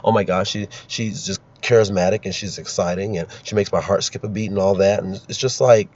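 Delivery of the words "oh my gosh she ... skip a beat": mock gushing. Host mocking media fawning over a candidate, mock gushing. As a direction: gush in a mocking run-on list. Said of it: "They act like".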